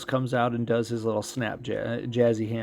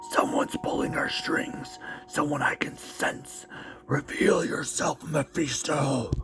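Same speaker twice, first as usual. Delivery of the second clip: mystic whisper; 3 semitones higher, slower than usual. Acted. Voices a hero sensing Mephisto.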